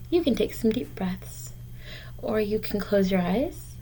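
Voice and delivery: soft, breathy hush; a teacher's soothing whisper to worried kids. Acted. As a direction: whisper it like a calming secret. Teacher calming children.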